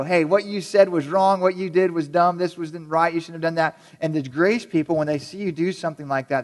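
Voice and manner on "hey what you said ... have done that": blunt truth-teller. Retold or imitated. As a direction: playfully imitate a blunt critic. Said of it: "your truth people".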